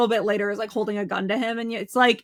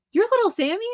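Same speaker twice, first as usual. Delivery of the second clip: higher, incredulous question; acted quote; 10 semitones higher, faster than usual. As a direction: imitate her asking, pitch lifted. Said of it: "And she's like".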